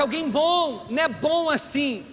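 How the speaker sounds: preacher shouting the word "bom"; preaching shout. Real, not acted. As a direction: proclaim it to the congregation. Preaching emphatic point.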